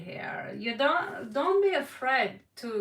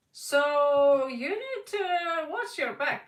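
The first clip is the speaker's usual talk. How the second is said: louder, slow, raised warning; earnest raised warning; 4 semitones higher, 5 dB louder, slower than usual. Real, not acted. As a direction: caution them firmly. Warning about enemies.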